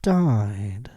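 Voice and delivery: whispered died. Real, not acted. Host reading a death story, sudden whisper. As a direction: breathe the word with no voice.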